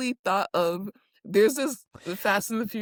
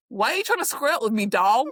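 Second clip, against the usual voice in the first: retold confrontation; 3 semitones higher, faster than usual. Podcaster quotes Lala confronting Danny, quick mock challenge. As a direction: fire it off as a hammed-up challenge. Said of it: "And she goes".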